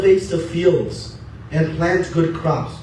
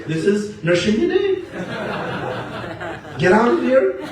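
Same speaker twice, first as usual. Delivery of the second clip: Maya laughing; 4 semitones higher than usual. Acted. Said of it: "Maya says".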